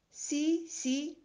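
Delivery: high, eager yes yes. A narrator's reading. Little soul eagerly agrees with its friend, high and eager. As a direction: jump in with quick delight.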